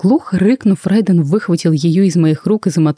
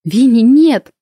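higher-pitched cry of warning; alarmed cry; 7 semitones higher, 4 dB louder, slower than usual. A narrator's reading. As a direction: call out to stop her, understated. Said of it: "запоздало крикнула я". (встревоженный окрик)

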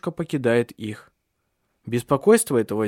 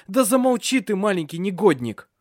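put-on high, snapping at the child; exasperated yell; 7 semitones higher, 3 dB louder than usual. A narrator's reading. Father yelling at the screaming boy. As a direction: tell the brat to shut up.

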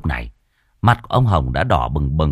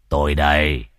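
lower, easy call from the gate; cheerful old man calling out; 5 semitones lower than usual. Acted. Hồng calls from the gate to his friends, cheerful. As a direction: announce yourself like a friend who is back.

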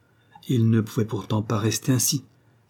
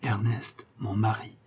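proud answer; 7 dB quieter, slower than usual. A narrator's reading. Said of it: "elle répondait fièrement".

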